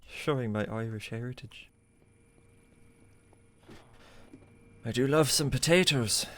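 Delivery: put-on a weak, barely there Irish accent; lightly hint at an Irish accent, half-hearted; bad Irish accent. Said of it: "I'm not doing a very good accent right now".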